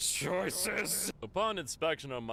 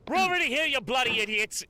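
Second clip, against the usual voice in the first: put-on much higher, louder British accent shout; 10 semitones higher, 7 dB louder than usual. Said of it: "in my best British accent".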